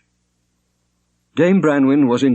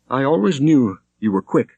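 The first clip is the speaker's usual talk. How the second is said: a hint of a troubled young woman, higher; lightly voiced young woman; 5 semitones higher than usual. A narrator's reading. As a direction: Shonerd pleading with a touch of sadness. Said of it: "said Shonerd".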